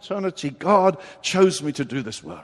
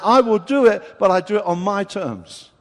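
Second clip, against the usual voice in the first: firm declaration; 2 semitones higher, 6 dB louder than usual. Retold or imitated. Jesus voiced setting terms.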